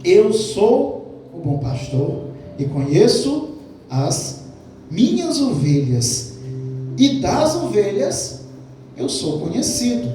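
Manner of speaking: slow, weighty reading of the verse; solemn, drawn-out Bible quote; slow scripture reading. Shown as a demonstration. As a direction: lay out each word slowly, letting it sink in. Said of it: "João dez, quatorze".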